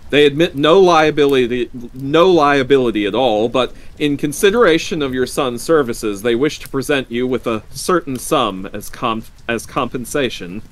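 official statement, starting high and loud, then easing; firm's visitor. A narrator's reading. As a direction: announce the company's terms, emphatic at first.

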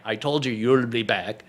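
retold Scottish cartoon voice; Scottish accent. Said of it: "I'll do him Scottish".

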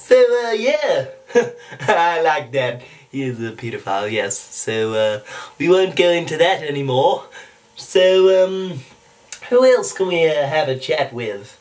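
cartoon host moving on; amused cartoon impression, hesitant; Stewie Griffin. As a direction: chuckle and move along in a cartoon voice. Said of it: "Stewie Griffin".

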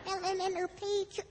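ventriloquist voice swap, lips still; lips barely moving. Acted. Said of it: "the ventriloquist swaps voices with the puppet".

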